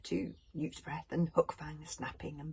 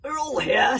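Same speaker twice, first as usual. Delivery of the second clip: loud calling; 8 semitones higher, 13 dB louder than usual. A narrator's reading. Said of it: "said Valhalla Rama".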